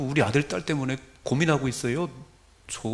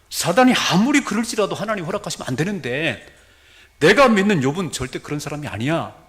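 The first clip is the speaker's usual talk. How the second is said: raised, loud pulpit delivery; forceful preaching; 5 semitones higher, 7 dB louder than usual. Real, not acted. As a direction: drive it home to the congregation. (목소리를 높여 힘차게 설교)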